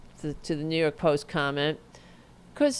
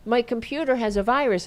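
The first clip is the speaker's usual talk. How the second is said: gullible viewer; 5 semitones higher, faster than usual. Acted. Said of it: "be like".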